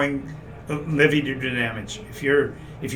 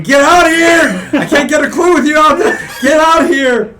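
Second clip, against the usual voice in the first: troll shouting; 13 semitones higher, 12 dB louder than usual. Acted. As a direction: bellow it out as a troll. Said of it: "You hear him shouting".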